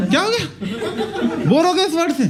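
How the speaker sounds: high, squeaky pretend voice with a laugh; mock squeaky voice. Playing the bored word vomit, high and squeaky.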